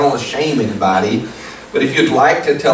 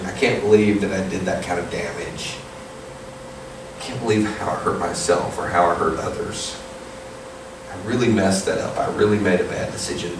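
regretful inner voice; 2 semitones lower, 5 dB quieter than usual. Retold or imitated. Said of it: "you look back and you say".

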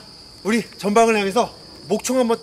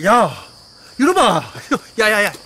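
scolding; 4 dB louder than usual. Acted. Dad scolding sulking child.

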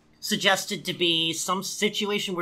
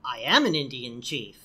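deadpan low line; 10 semitones lower, 3 dB quieter than usual. Retold or imitated. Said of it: "And he says".

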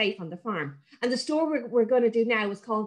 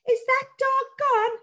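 little voice; 14 semitones higher, 3 dB louder than usual. Acted. Little sprite asking if it is safe, tiny voice. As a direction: timidly draw out the question. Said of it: "said the little voice".

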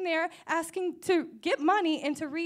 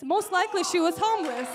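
firm, slightly raised preaching voice; emphatic aside; 3 semitones higher, 5 dB louder than usual. Real, not acted. Preacher comments on the convert's homeless ministry, emphatic aside. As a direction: make the point to the room. Punchline to congregation, first take.

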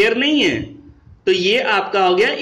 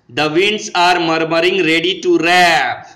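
slow dictation; 2 semitones lower, much slower than usual. Shown as a demonstration. Teacher reads poem line.

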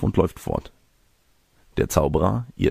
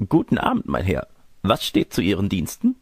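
put-on old lady.

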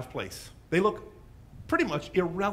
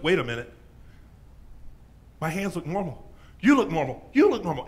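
amazed discovery; 4 dB louder than usual. Acted. Healed leper noticing his skin.

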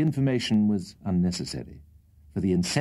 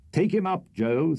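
calling out; 9 semitones higher than usual. Acted. Old gentleman orders Joe to fetch the shot rook, calling. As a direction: send the boy after the bird.

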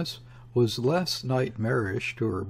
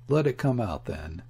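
indifferent. Acted. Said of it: "the indifferent voice of Chief Inspector Heat".

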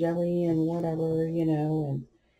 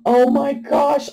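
gasp, then high, loud, drawn-out dismay; horrified mom reliving the moment; re-enacted shock; 9 semitones higher, 5 dB louder, slower than usual. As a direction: gasp and cry out in mock horror. Reenacts her shock at the prank.

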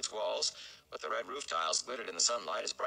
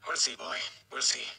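higher, louder, hedging; uncertain mayor; 5 semitones higher, 3 dB louder than usual. Acted. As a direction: hide the doubt. Mayor unsure over Tam.

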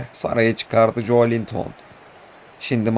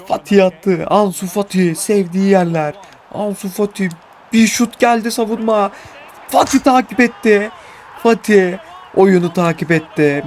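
goal call; 7 semitones higher than usual. Real, not acted.

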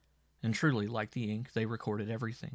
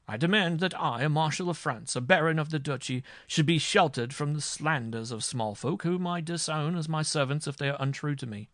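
higher, louder indignant tirade; haughty fury; 6 semitones higher, 5 dB louder than usual. A narrator's reading. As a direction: pull rank in outrage. Marshal rages at the judge.

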